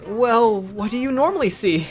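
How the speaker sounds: high, eager question; curious Noi. Acted. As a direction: pitch it up, curious. Voicing puzzled Noi.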